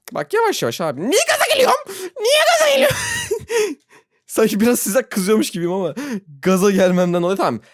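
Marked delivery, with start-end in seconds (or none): 1.0-3.0 excited squeal. Real, not acted. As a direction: squeak it out, all worked up. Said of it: "ya niye ben gaza geliyorum". (heyecandan tiz, yüksek ciyaklama)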